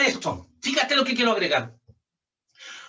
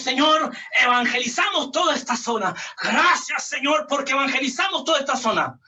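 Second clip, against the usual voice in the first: oración retomada; 3 semitones higher than usual. Retold or imitated. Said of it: "y dijimos".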